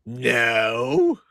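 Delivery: drawn-out creepy denial, sliding up at the end; creepy, unconvincing little denial. Acted. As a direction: deny it in a creepy way. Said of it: "how come you're saying it creepy".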